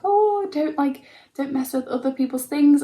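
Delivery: high sudden "Oh" then hushed scold; quick warning to son. Retold or imitated. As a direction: catch the child before he breaks something. Warning son at market stall.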